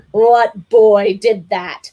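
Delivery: loud, slow mock interrogation; slow loud mock demand; mock booming demand. A narrator's reading. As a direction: play the big ogre.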